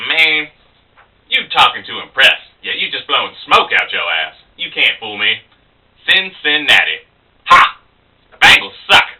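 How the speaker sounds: dismissive barroom put-down; casual scorn rising to a loud parting shot; local guy. Acted. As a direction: call the show-off's bluff, then jeer. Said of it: "the local guy".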